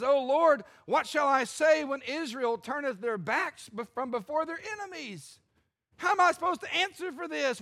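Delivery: a wounded leader complaining upward; whining plea. Acted. Preacher voicing Joshua whining to God. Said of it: "You can hear the whining in his voice".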